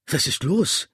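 calling out, pitch jumping up; shouted question. A narrator's reading. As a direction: shout the question after someone. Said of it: "schrie ich".

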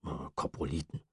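a hesitant, careful "Äh, Koproliten"; carefully repeated. Acted. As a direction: sound out "Koproliten" with care. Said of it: "wiederholte Chester sorgfältig".

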